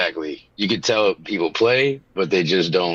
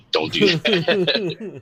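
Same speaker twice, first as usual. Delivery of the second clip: high drawn-out whine; 9 semitones higher, much slower than usual. Pretend. Mock high drawn-out protest.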